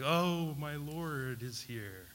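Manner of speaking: drawn-out, hushed cry of awe; lightly acted, overcome reverence; mock tearful awe. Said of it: "Does he start weeping?".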